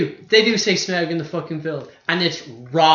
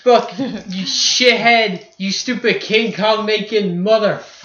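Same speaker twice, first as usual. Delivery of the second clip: higher, louder mock fury; play-angry tirade at the director; mock rant; 4 semitones higher, 4 dB louder than usual. Ranting at Peter Jackson.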